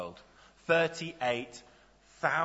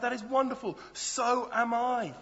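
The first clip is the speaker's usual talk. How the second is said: higher, gushing stranger voice; eager passerby; 9 semitones higher than usual. Acted. Passerby on a bridge cheerfully agreeing, higher eager voice. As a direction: sound delighted to agree. Joke passerby answers each reply.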